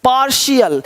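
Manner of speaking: "पार्शियल" as par-shial; "पार्शियल" with sh in the middle, falling. Shown as a demonstration. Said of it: "यहाँ श हो रहा है".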